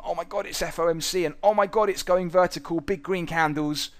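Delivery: high, loud, hammed-up panic about the market; mock panic. Mimicking his younger self panicking at FOMC, a hammed-up fright. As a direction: imitate his old self freaking out over the spike. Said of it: "'cause I'd have gone".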